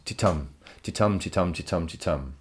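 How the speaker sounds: titum chanted with the stress on tum each time; da-DUM rhythm, weak then strong, fading away; iambic beat. Shown as a demonstration. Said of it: "the emphasis is on the second".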